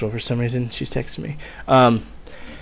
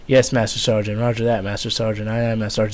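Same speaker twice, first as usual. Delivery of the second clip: repeated dutiful acknowledgement. Retold or imitated. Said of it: "just over and over and over".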